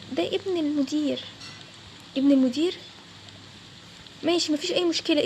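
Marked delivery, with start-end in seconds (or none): 0.1-1.2 slow, weighty reveal with a falling end. Acted. Revealing who he is, slowly. 2.2-2.8 louder echo with a sharp rise at the end; shocked echo. Acted.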